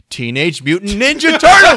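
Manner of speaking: mock excited shout, laughing. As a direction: burst out with laughing glee. Laughing at a voicemail quote.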